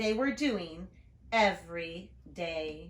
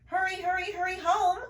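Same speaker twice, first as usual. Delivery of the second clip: put-on much higher little boy voice; little brother calling; 10 semitones higher, 5 dB louder than usual. Little brother calling his sister home, much higher. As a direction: call after her like a small brother. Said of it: "her brother called".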